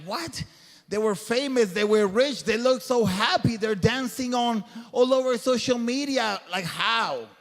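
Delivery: mock the baffled onlooker, voice rising; incredulous disbelief. Speaker imitating people shocked by a famous suicide, incredulous. Mimics puzzled reaction to suicides.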